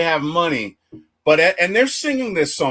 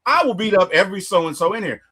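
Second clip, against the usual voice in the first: higher, quick mock threat; imitated quick delivery; 5 semitones higher, faster than usual. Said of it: "the way she delivers it".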